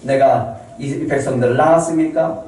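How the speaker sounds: burdened, questioning appeal; complaining to God. Acted. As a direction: lay an aggrieved complaint before God. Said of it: "모세도 하나님을 향해서 불평합니다".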